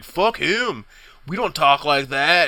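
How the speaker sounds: mocking sneer. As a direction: sneer it like a bully in line. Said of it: "you just hear some assholes like".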